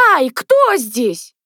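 slow, drawn-out startled question; frightened cry. A narrator's reading. Lyusya finds someone in the nook, crying out frightened. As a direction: cry out as if caught by surprise. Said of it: "испуганно вскрикнула она".

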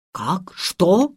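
startled exclamation. A narrator's reading. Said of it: "выкрикнул доктор".

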